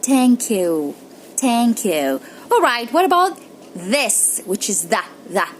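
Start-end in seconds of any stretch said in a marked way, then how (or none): 0.0-2.2 "thank" with a soft t. Shown as a demonstration. Teacher repeats the soft-t "thank you". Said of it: "you say it".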